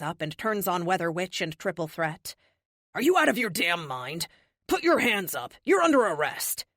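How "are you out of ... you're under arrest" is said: louder, rising fury into an arrest; angry command. Acted. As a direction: bark the order at the attackers. Officer arresting the attackers.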